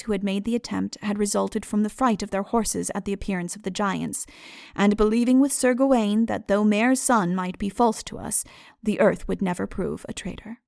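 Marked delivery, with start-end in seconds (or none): none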